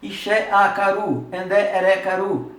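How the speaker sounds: loud drill recitation, syllable by syllable; recited conjugation. Shown as a demonstration. Teacher drills Tupi verb forms aloud for the class. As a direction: chant the forms for the class to copy. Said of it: "Como é que você faz".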